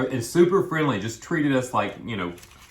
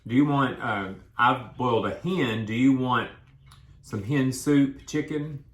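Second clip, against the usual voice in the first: mock offer; 3 semitones higher than usual. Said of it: "if you were gonna say".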